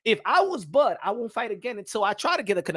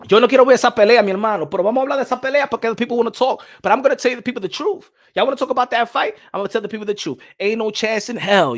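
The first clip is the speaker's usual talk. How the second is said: fired-up rant; 4 semitones higher, 7 dB louder, faster than usual. Real, not acted.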